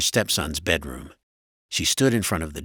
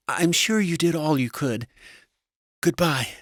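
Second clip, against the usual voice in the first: high-pitched, restrained wife; high voice, politely containing distress; wife trying to stay calm; 11 semitones higher than usual. A narrator's reading. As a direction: hold it together in a high wife voice. Wife holds composure on phone.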